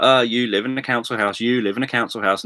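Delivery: lightly acted playground jeer; mocking schoolkids. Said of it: "they take the mickey".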